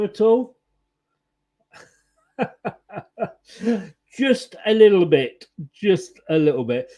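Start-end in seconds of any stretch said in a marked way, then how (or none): 2.4-5.5 laughing through the words. Real, not acted. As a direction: chuckle while saying it. Laughing at own joke.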